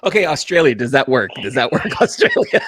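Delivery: loud calling out. Real, not acted.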